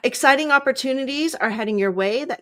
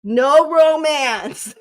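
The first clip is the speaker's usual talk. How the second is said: scolding refusal; 7 dB louder, much slower than usual. Retold or imitated. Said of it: "your angels are like".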